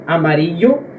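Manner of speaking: "amarillo" with a single light tap on the r; don't roll the r in "amarillo", just tap it; untrilled R. Shown as a demonstration. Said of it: "ele não é vibrado".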